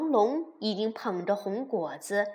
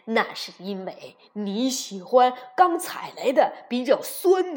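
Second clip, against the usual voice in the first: louder, firm fatherly explanation; father dinosaur scolding; 5 dB louder than usual. Acted. Father dinosaur explains his care to the jealous children, firm and loud. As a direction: set the foolish children straight.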